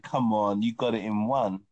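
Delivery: playful knowing jab; mock knowing come on. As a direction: tease her as if she knew. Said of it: "you was like".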